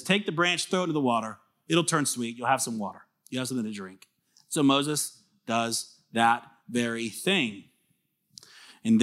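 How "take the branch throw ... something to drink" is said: gentle reassurance. Retold or imitated. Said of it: "He says".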